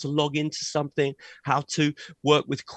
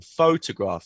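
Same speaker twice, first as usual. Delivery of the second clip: "photograph" stressed on PHO, lower and falling; stress on first syllable; 5 semitones lower than usual. Shown as a demonstration. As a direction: model "photograph" for learners, first syllable strongest. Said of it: "Stress is on the first syllable".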